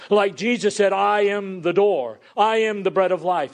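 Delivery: "I am" pitched high and stressed; emphatic "I am". Retold or imitated. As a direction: punch "I am" as a claim for oneself alone. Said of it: "emphasizing that he and he alone".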